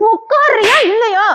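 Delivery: slow, high, menacing "sit or not?"; slow threatening demand. Acted. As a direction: stretch each word like a final warning. Same demand, slowed and raised.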